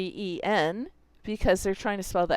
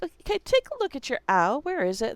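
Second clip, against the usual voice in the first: brighter, higher coaching voice, a bit quick; coaching a student, higher, upbeat prompt; teacher prompt; 5 semitones higher, faster than usual. Shown as a demonstration. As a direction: coax the kid toward the answer. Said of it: "It's like".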